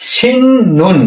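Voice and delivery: "সিন নুন" with the first syllable closed on a long n; nasal n assimilation. Shown as a demonstration. Teacher shows learners the rule in use, n sound on "সিন নুন". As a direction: say "সিন নুন" with n running straight into n. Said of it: "নিয়নে ন উচ্চারণ হবে".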